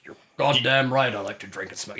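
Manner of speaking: lightly put-on British accent, gruff and pleased; a hint of Churchill in a British accent, relishing his vices. Churchill answering his hosts, in a light British accent. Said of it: "It's a good British accent".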